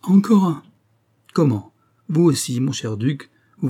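high, loud, amused outburst; the baron laughing at the lovesick duke. A narrator's reading. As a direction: burst out laughing at the news. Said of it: "il éclata de rire".

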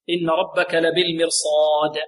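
slow Quranic recitation, long final vowel; measured recitation. Shown as a demonstration. Teacher models the verse for students, measured recitation. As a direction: recite it deliberately, stretching the ending.

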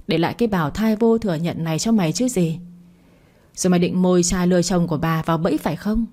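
sharp-tongued mock scorn, lightly voiced; mildly shrewish taunt. Phượng berates Hân in front of the crowd, mild shrewish sneer. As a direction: spit the insults with a sneer, understated. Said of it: "vừa chanh chua nói".

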